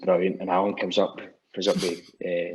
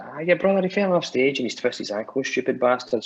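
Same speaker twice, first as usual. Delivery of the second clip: imitating a singer; 5 semitones higher than usual. A singer's quote retold.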